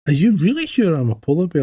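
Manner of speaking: lightly voiced pestering cub; polar bear cub. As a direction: ask again, pestering his mum. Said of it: "the polar bear cub goes".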